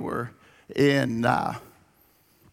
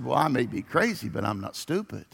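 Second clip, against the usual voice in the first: lightly voiced sly inmate, softer at the end; smiling punchline; 3 semitones lower, 4 dB quieter, faster than usual. A hint of an inmate grinning at the salesman, sly and soft. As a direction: deliver the punchline dry and sly, dropping away. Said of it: "the inmate smiled and said".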